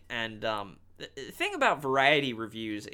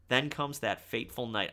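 voice crack. Real, not acted. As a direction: voice cracking mid-phrase. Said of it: "my voice cracked then".

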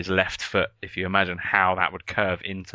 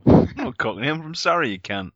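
indignant protest; 7 semitones higher, 6 dB louder than usual. Real, not acted. Protesting being called Cockney.

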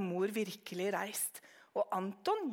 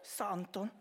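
ordinary delivery, nothing marked

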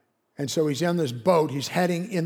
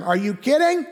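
higher-pitched scoffing disbelief; mock disbelief; 7 semitones higher, 4 dB louder than usual. The friend hears Jonah's mission, higher mock disbelief. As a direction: scoff like the friend can't believe it.

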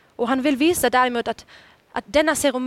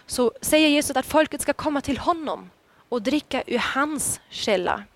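ordinary delivery

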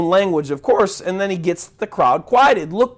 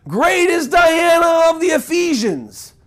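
higher, slow chanted yell of an angry mob; mob shout; 8 semitones higher, slower than usual. Retold or imitated. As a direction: bellow it like a frenzied crowd. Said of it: "screaming out for two hours".

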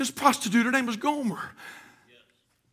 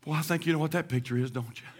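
lower, much softer, near whisper; hushed storytelling; 5 semitones lower, 6 dB quieter than usual. Acted. Preacher softly telling of Gomer's unfaithfulness. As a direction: draw them in quietly.

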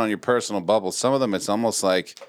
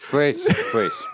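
put-on high pleading old man. Verbal tic old man.

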